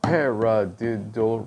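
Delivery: stretched, slow paradiddle; drawn-out demo word. Shown as a demonstration. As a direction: sound out the rudiment slowly. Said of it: "It sounds like this".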